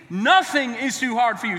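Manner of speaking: like you mean it. Shown as a demonstration. Preacher leading the congregation in the verse, like he means it. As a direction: declare it with conviction, punching "Nothing". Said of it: "Say it like you mean it".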